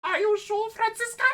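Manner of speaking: high squeaky falsetto. Acted.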